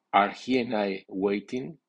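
"he" and "I" stressed, uncontracted, rising question. Shown as a demonstration. Teacher models a multiple-subject question, strong stress on "he" and "I". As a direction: give "he" and "I" full strong accents. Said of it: "lleva acento fuerte si es sujeto múltiple".

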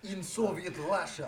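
slow, lightly put-on Russian accent; mock Russian accent. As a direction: echo a bad Russian accent slowly. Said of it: "do a Russian".

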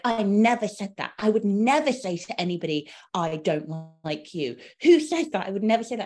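high, loud indignant denial, hammed up; dramatic gym woman. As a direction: play the offended tennis lady protesting too much. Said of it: "She was so dramatic".

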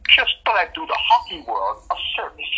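light attempt at an Australian accent; a hint of mock Australian. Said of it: "in her Australian accent".

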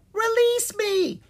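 very high, squeaky little shout; slow, piercingly high demand; tiny-voiced shout. A narrator's reading. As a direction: shout it like a tiny fairy creature. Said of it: "shouted in a tiny voice".

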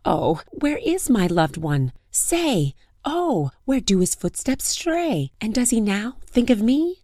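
high pleading lament; sing-song plea to the sky; plaintive lament. Acted. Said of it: "she said".

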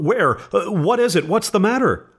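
high-pitched startled questioning; flustered, pitch climbing with each question; alarmed. A narrator's reading. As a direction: startle awake and ask in alarm. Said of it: "He started up in alarm".

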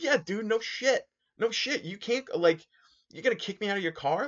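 2 high, loud exasperated disbelief; 1 incredulous outburst. Retold or imitated. 4 passenger scoffs at the cab driver who faked a police call, high loud disbelief.

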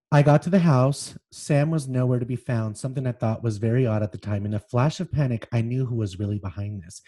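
dramatic memoir reading with acted quotes; reading aloud. A narrator's reading. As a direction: read the scene as it unfolds. Reads memoir excerpt aloud.

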